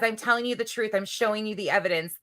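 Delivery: brassy gum-smacking floozy; blonde bimbo voice. Retold or imitated. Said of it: "my blonde bimbo voice comes out so easy".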